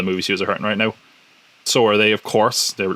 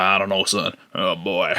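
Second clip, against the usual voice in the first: mock Southern accent; 3 dB quieter than usual. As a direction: imitate a film's Southern folk. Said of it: "his big southern accent".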